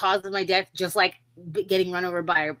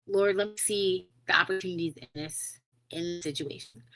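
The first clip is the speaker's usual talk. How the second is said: murmured prayer, trailing softer; under the breath; 7 dB quieter than usual. Retold or imitated. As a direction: pray it quietly to yourself. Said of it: "just under my breath".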